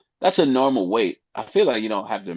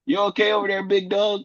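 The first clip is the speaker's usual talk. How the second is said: higher, mock-worried check-in; mock concern; 12 semitones higher than usual. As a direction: tease him with fake concern. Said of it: "You just always wanna ask them".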